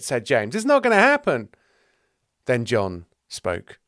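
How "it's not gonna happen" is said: loud, high brush-off; pitched-up, punchy assurance; emphatic dismissal. Acted. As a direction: rule it out forcefully. James brushes the worry off.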